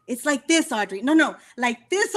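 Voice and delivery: retold coaching, each "this" lifted and leaned on; insistent stress on "this". Producer correcting singer over and over, insistent stress on "this". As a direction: repeat the correction, pressing on "this".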